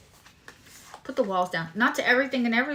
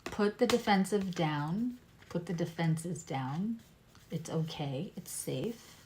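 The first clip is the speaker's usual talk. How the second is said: thick speech from a bitten tongue; swollen tongue; 4 dB quieter than usual. Real, not acted. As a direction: talk around a swollen tongue. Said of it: "so I'm talking funny".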